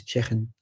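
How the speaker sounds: "chicken" with a throaty Scouse ch for the k; Scouse pronunciation. Shown as a demonstration. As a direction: rasp the middle of "chicken" like the ch in loch. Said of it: "we have the ch sounds in".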